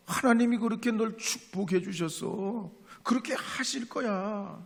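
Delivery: a hint of a mother's upbeat pep talk; encouraging mother. Mother encouraging her son about his grades, lightly voiced. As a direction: lift him up like a believing mom.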